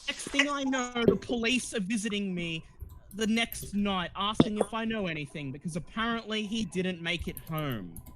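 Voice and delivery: high, cool and dismissive; cold actress. Acted. Actress explains Paul's breakup to the party, high and cool. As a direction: tell it coolly, pitched high.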